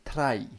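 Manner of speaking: "Try" with an overdone trilled "tr", actor's bad Scottish; mock Scottish trill. Mimicking actors faking Scottish accents, weirdly trilled "Try". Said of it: "they do T's really weirdly".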